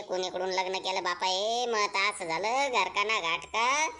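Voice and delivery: low, weary husband's grumble; grumbling husband. Acted. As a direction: mutter it like a fed-up husband. Husband grumbles about his marriage. (खालच्या आवाजात कंटाळलेला नवरा)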